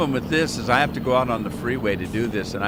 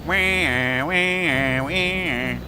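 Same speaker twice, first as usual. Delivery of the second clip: imitated siren wail; 3 semitones higher, much slower than usual. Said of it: "I can hear the sirens going off".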